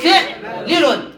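«فعلل» as fi'-li-lun, slowly; kasra on fa. Shown as a demonstration. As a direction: say «فعلل» with i on fa and first lam. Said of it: "والكسر فنقول".

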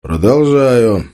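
slow, deliberate resumption; even tone. A narrator's reading. Tolik resumes his plan after the outburst, evenly. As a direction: draw the word out, composed. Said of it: "ровно сказал Толик".

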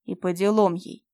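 loud cruel snarl; cruel growl. Acted. Fyodor snarls over the dying woman, cruel growl. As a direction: growl it without pity. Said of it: "жестоко прорычал".

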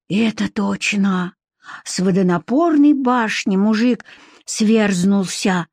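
slow, resigned lament; sighing. Acted. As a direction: sigh it out slowly. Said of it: "вздохнула вторая женщина".

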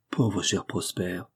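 slow, tender commiseration; affectionate sympathy. A narrator's reading. Friend clasping the cashier's hands, affectionate. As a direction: linger gently on the pitying words. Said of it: "sous ces démonstrations affectueuses".

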